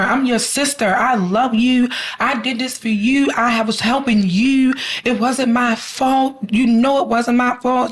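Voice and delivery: high, begging sister voice; pleading sister. Retold or imitated. Hostage sister pleads with her captor, high and begging. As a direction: beg her sister to believe her. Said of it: "she kept telling her".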